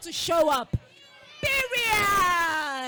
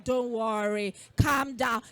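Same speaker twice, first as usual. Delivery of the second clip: lower, soothing demo for friend; calm reassurance; 7 semitones lower than usual. Shown as a demonstration. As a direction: settle a worried friend down. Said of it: "Tell your friend".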